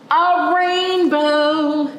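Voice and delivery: high, slow, wonder-filled; a slow, high gasp of wonder; excited reveal. A narrator's reading. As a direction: breathe it out in awe.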